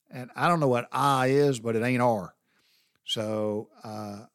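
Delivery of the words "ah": "ah" open, with no r at the end; R-less letter R. Retold or imitated. Mocking mother-in-law's letter R, with no r. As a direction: pronounce R as a plain open "ah". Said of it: "can't pronounce the letter R".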